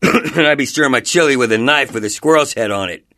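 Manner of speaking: ordinary talk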